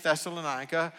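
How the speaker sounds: Thessalonica said thess-uh-luh-NYE-kuh; first pronunciation. Shown as a demonstration. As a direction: say Thessalonica with "eye" in the stressed syllable. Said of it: "if you wanna call it".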